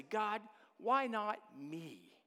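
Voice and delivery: slow, sincere willingness; humble offer. Shown as a demonstration. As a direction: offer yourself to God, unhurried. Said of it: "Or you say it like this".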